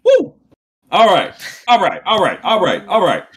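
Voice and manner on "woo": high whoop of delight; excited woo. Real, not acted. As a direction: cheer it out. Celebrating the rap.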